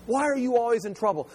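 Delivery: acted parental exasperation; mock questioning adult. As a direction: press the kid for an explanation.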